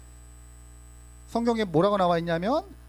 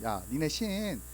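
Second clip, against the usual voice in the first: mocking taunt. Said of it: "놀렸어요".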